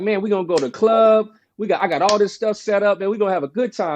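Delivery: lightly acted excitement; retold hype. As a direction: imitate a pumped-up friend on the phone. Friend hyping up a night out.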